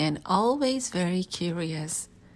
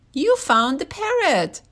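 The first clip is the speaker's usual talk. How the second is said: high, louder happy surprise; thrilled to see the bird back; delighted; 8 semitones higher, 5 dB louder than usual. A narrator's reading. Zookeeper delighted at George finding the parrot. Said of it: "she said".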